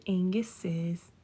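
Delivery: slow whispered answer for parrot; teaching a parrot. Real, not acted.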